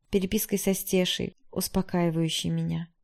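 ordinary delivery, nothing marked

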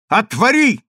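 high loud command; loud order. Acted. Consul orders his wife to open, loud. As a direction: bark the order through the door. Husband pounding at locked door.

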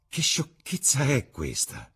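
slow, high-pitched disbelief; astonished exclamation. A narrator's reading. Painter is taken aback by Dorian's refusal, astonished exclamation. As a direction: draw out the question in astonishment. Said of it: "esclamò Basil".

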